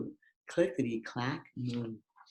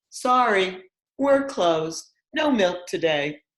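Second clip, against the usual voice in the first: cheeky strike note; 5 semitones higher, 5 dB louder than usual. Acted. Cows' strike note read out.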